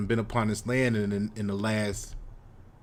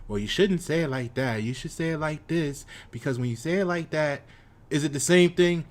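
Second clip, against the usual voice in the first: lightly mimicked critic, pitched higher; mock nitpicker; 5 semitones higher than usual. Imitating citizens who tell you how to say things, mock nitpicking.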